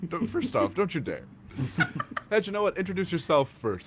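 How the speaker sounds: mock scolding.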